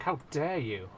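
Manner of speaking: indignant, quick first take; mock outrage. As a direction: play offended at a slight. Mock offence at chat remark.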